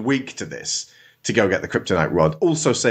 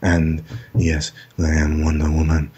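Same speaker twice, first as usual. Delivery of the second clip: put-on Wonder Woman accent; 6 semitones lower than usual. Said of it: "she's like".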